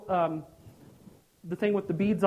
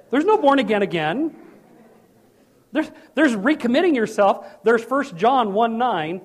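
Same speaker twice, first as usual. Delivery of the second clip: raised insistence; 3 semitones higher, 5 dB louder than usual. Real, not acted.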